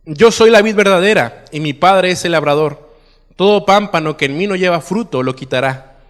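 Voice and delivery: projected, declamatory Bible reading; preacher reading scripture aloud. Acted. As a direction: read the passage out to a congregation, leaning into each opening phrase. Reads scripture aloud to congregation.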